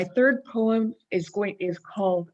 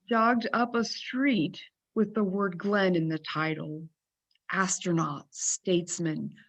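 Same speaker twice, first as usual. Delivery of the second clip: poem reading. Acted. Poet honoring John Glenn in an extended haiku, measured recital. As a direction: read each short line as its own unit. Reads her haiku aloud.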